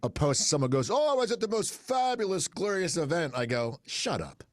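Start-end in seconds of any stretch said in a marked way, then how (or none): 0.9-3.3 high, hammed-up gushing; mock gushing. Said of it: "no one talks like that". 3.9-4.4 low, soft deadpan put-down; mock dismissal. Curt reaction to gushing post.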